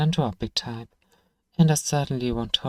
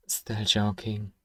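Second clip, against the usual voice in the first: slow laughing tease; 3 semitones lower, 5 dB quieter, slower than usual. Acted. Shopkeeper teases the goblin about the dangerous walls, chuckling slowly. Teasing after warning.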